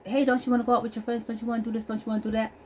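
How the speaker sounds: retold eager prodding, fast and high; coaxing questions. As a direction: rattle off suggestions to your son. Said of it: "when I would ask him".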